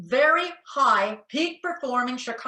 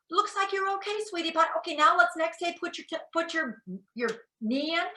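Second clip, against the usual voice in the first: bright, higher-pitched coaxing; cheery encouraging parent; 5 semitones higher than usual. Retold or imitated. Parent encouraging a child at the swimming pool, higher and cheerful. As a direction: praise the little one and nudge them on.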